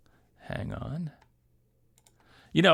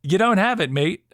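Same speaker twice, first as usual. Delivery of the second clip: mock South African accent; 7 semitones higher, 5 dB louder than usual. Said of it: "he had this South African accent".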